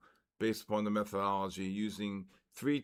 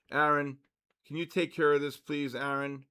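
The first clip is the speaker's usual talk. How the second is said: louder call across the room; calling out to Aaron; 2 semitones higher, 5 dB louder than usual. Real, not acted. Streamer calls his moderator to ban a troll, calling out. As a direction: raise your voice to get Aaron's attention.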